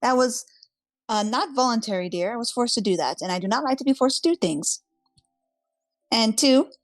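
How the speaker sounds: snippy. Acted. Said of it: "looking kind of, like, uh, snippy".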